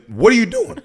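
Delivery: high-pitched indignant question; retold anger. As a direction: confront the bouncer in mock outrage. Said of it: "I was so mad".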